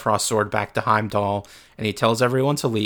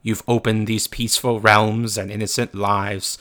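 stern Odin voice; 5 dB louder than usual. Retold or imitated. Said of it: "and he says".

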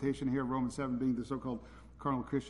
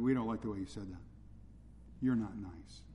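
lightly mocking prim scold, a touch lower; tone police; 5 semitones lower, 4 dB quieter than usual. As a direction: poke fun at the fussy tone police. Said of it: "I hear the tone police coming out".

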